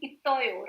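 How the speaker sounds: "itoyo" with a t sound; first-rule pronunciation. Shown as a demonstration. Teacher showing what the first rule would give, t pronunciation. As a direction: say "itoyo" with t, not s. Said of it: "Going by the first rule".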